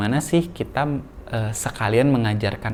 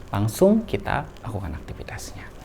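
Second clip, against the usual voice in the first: whispered; 5 dB quieter than usual. Real, not acted. Teaching video aside.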